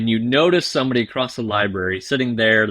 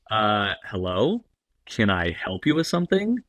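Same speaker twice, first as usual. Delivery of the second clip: wary politeness; 3 dB quieter than usual. Acted. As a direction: answer an unknown caller with hesitant suspicion. Prospect answers unwanted cold call.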